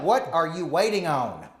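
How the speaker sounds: mildly exasperated imitation of a wife; a touch of emotional impatience; retold heated demand. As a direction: press for an answer, lightly acted. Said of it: "we have this very heated discussion".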